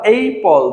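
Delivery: "apple" slowed into two beats, a, pple; split into syllables. Shown as a demonstration. Teacher counting syllables for learners, "apple" slowed into two beats. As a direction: draw out both syllables of "apple". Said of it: "দুটি রয়েছে".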